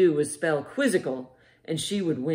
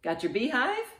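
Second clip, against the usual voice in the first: usual speaking voice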